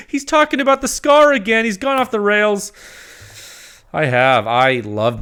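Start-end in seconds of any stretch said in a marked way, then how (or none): 0.1-2.7 high, louder mock voice of a critic. Reviewer mimics critics teasing his Scar obsession, mock high voice. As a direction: squeal it like a teasing onlooker.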